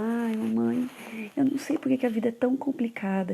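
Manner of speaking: imitating her crying son. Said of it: "Ele começou a, a falar".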